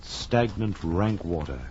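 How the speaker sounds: measured, brooding storytelling; old radio horror narrator; gothic narration. A narrator's reading. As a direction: lead the listener into dread.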